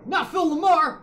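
mock anguished cry. Gamer hamming outrage at the actor's character getting hurt. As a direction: wail then vow revenge.

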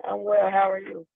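a touch subdued; sounds sad. Real, not acted. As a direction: answer softly, a little downcast. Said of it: "You sound so sad".

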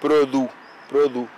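Produ read slowly off the letters; sounding out. Shown as a demonstration. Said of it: "Que esa I se lee como U". (Produ deletreado despacio)

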